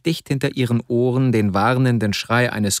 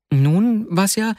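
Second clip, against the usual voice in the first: imitating his boss; 9 semitones higher, slower than usual. Vasja quoting his superior.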